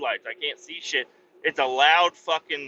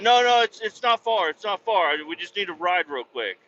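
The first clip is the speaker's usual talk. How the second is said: pleading; 3 semitones higher than usual. Retold or imitated. The guy begs the storyteller for a ride, high eager pleading. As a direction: beg him as he tries to leave.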